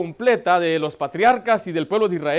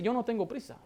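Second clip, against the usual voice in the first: soft, untroubled reply; unhurried, calm; 2 semitones higher, 10 dB quieter than usual. Acted. God answering an impatient believer, soft and unhurried. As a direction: drop the volume and reassure.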